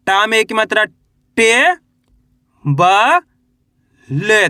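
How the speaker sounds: टे, ब, ले each held, with long pauses between; drawn-out teacher's spelling of टे - ब - ले; letter-by-letter spelling. Shown as a demonstration. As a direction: sound out टे, then ब, then ले, stretching each. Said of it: "एक अक्षर का उच्चारण करके".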